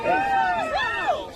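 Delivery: high, drawn-out wow of amazement; amazed wow. Acted. Presenter marvelling at the bat's speed, amazed. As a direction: let the wow soar up in wonder.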